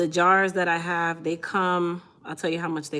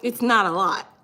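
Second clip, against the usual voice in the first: pushy; 3 semitones higher, 6 dB louder than usual. Pretend. Mom pushing kids to eat.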